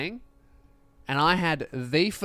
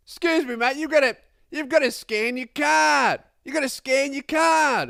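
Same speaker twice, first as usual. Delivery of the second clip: exasperated bus driver; 9 semitones higher, 4 dB louder than usual. Retold or imitated. Bus driver scolding another passenger, high exasperated order. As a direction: drum it in, fed up. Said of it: "he had to go".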